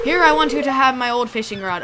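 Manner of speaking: put-on old pirate spinning a yarn; pirate sailor voice; pirate accent. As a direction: talk like a salty pirate fisherman. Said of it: "give him a pirate accent now".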